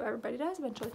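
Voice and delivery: soft resigned aside; quiet musing. Real, not acted. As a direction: say it to yourself, conceding. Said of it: "Well, true".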